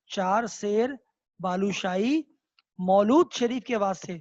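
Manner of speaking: چار سیر, pause, بالوشاہی, pause, مولود شریف کے واسطے with stress on مولود; broken into phrases. Shown as a demonstration. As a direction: spell it out piece by piece for the class. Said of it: "پھر وہ کہتے ہیں". (ہر حصے کے بعد وقفہ، مولود پر زور)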